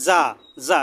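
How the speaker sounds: "জা" said with a thin z sound; som fino. Shown as a demonstration. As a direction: keep "জা" light and thin. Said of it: "একবারে পাতলা করে".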